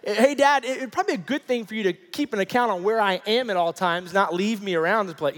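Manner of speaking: put-on loud, high parody of a reasonable child; mock composed. Son lecturing his father, in mock composure. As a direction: deliver it as an exaggeratedly well-ordered complaint. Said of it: "this well put together thought".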